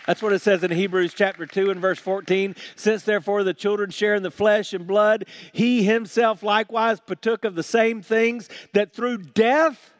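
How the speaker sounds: emphatic pulpit reading; forceful scripture reading. Real, not acted. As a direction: drive the verse forward to a strong peak. Reads scripture at full force.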